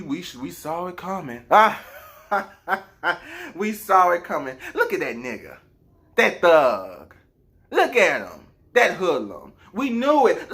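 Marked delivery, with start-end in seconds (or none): 4.8-10.5 mock racist onlooker. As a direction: point and sneer like a nosy neighbour.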